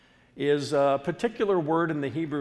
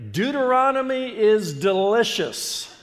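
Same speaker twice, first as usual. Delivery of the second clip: loud, high, ringing slogan; enthusiastic rallying cry; 8 semitones higher, 8 dB louder than usual. Real, not acted. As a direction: proclaim it big for the crowd to repeat. Preacher rallies congregation with catchphrase.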